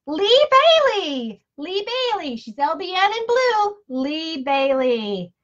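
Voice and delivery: high, sung-out name call; playful raffle announcement; winner announcement. Real, not acted. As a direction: sing out the winner, ending long and drawn out.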